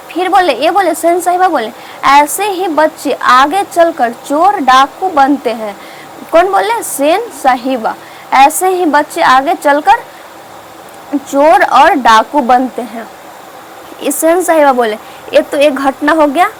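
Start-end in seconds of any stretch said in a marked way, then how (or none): 2.1-5.8 slow, measured judgement in quotation; retold disapproval. Sen sahiba says such children become thieves, retold slow disapproval. 8.3-13.1 measured quote, slowing towards the end; retold disapproval. Sen sahiba predicts the children turn robbers, retold slow disapproval.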